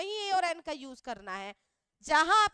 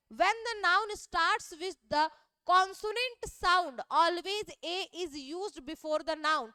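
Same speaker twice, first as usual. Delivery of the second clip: slow dictation; much slower than usual. Shown as a demonstration. Teacher dictating rule one slowly to Class 10 pupils. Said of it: "rule number one क्या है?".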